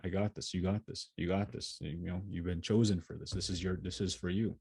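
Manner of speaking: quiet self-pep talk. Retold or imitated. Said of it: "that's what I was saying".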